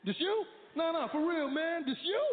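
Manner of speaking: put-on high, loud black American accent; a stranger greeting you, in an excited black American accent. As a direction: hype a stranger up like an old friend. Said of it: "They just walk up to you and be like".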